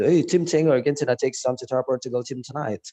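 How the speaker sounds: quick linked American English demo; American pronunciation. Shown as a demonstration. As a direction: run the words together in an American accent. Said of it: "pronunciation dari Amerika". (logat Amerika, kata-katanya disambung)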